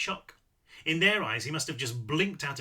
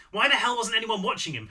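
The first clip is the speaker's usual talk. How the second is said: exasperated outburst; 6 semitones higher, 5 dB louder than usual. Acted. Hansen angry at the lapse.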